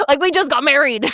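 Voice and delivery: high, amused protest; mock incredulous outrage. Alex hearing she's off with some guy, mock outraged. Voices husband's outrage, laughing around it.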